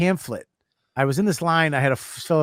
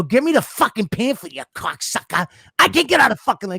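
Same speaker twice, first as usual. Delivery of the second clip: mock frustrated yell; 5 semitones higher than usual. Retelling his own outburst at Nick.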